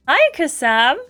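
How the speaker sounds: lightly eager, grinning hello; enthusiastic greeting. Acted. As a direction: greet him with a touch of enthusiasm. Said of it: "grin and wave enthusiastically".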